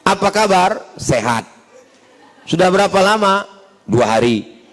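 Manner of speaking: curt question and answer, like talking to Google; no intonation. Shown as a demonstration. Preacher mimics WhatsApp-style small talk, curt and toneless. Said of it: "tak ada intonasi, macam ngomong sama Google".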